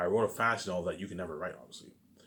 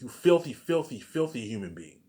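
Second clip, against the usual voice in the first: mock angry teacher; 3 semitones higher than usual. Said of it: "she called me a filthy human being".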